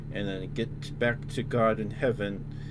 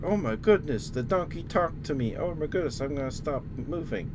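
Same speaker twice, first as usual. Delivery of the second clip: shocked mock disbelief; 6 semitones higher than usual. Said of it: "And it's like".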